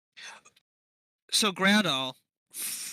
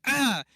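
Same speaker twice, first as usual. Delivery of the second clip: short, higher and louder mock yell; mock shout; 7 semitones higher, 5 dB louder than usual. Game master voicing startled enemies under a spell, mock shout. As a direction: cry out in playful alarm. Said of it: "they begin to shout".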